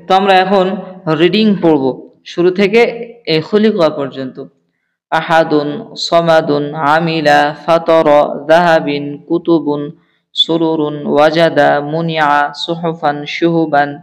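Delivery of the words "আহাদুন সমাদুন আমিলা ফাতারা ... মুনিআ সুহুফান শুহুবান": steady, measured word-list reading; reading practice. Shown as a demonstration. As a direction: read each word out clearly for students to follow.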